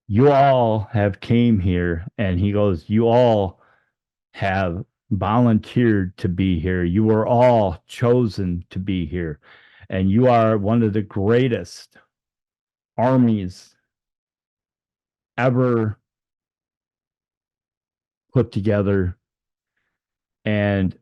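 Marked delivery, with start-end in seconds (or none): 0.1-2.1 slow, measured commander's address; sharp, to the point. Retold or imitated. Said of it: "his voice is, like, sharp, to the point". 2.9-19.2 measured commander's address with weighty pauses; sharp, to the point. Retold or imitated. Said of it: "his voice is, like, sharp, to the point".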